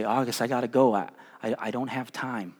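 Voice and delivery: put-on low, softening apology to a child; without malice. Father telling his son he must leave, quiet and unmalicious. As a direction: let it drop away softly, meaning no harm. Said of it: "I'm not saying them maliciously".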